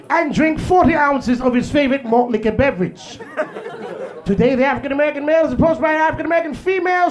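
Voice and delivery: stuffy white narrator studying wildlife; white documentary narrator. Retold or imitated. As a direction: narrate like a nature show host. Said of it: "The white guy be like".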